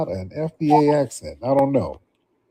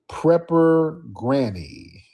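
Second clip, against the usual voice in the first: drawn-out call; 4 semitones higher, much slower than usual. Real, not acted. Calling guest into the stream.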